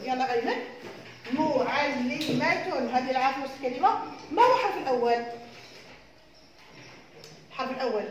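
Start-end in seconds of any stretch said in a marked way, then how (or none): 1.3-3.0 drawn-out syllables for spelling; slow dictation. Shown as a demonstration. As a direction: say it slowly so children can write. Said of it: "dictating the word slowly".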